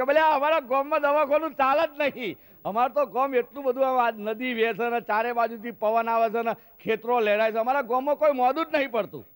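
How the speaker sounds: boastful village uncle. Acted. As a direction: brag about the healthy village.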